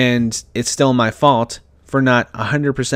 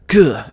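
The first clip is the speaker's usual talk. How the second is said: short loud frustrated "Gah!"; frustrated outburst; 3 semitones higher, 5 dB louder than usual. Retold or imitated. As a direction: blurt it out like shoving the chair. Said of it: "I went".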